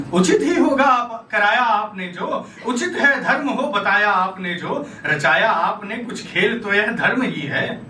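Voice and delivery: metrical verse with an aggrieved edge; dramatic poem recitation. Acted. Dying Karna questions Krishna about dharma, aggrieved verse recitation. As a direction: recite in measured, challenging lines.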